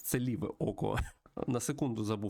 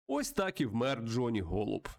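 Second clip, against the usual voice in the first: lightly dramatized game story read-aloud; story narration. Acted. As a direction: narrate the tale with a touch of drama. (виразне читання історії)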